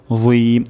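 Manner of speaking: "যীম" as "dheem", tongue tip at teeth; correct za. Shown as a demonstration. Teacher showing the right letter, "যীম" with tongue on teeth. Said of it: "আমাদের য উচ্চারণ হয়ে যাবে".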